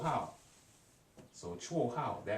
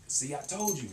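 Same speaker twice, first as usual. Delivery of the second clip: told you so; 6 semitones higher, 3 dB louder than usual. Shown as a demonstration. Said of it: "you know how in English we say".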